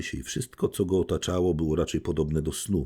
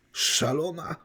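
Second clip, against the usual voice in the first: exclaiming; 12 semitones higher, slower than usual. A narrator's reading. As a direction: gasp it out in horror, voice jumping up. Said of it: "krzyknął książę". (wysoki okrzyk przerażenia, niezbyt głośny)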